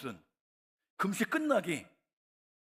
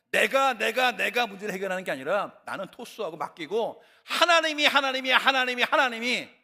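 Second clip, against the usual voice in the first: preaching; 5 semitones higher, 7 dB louder than usual. Real, not acted. Preaching climax on God.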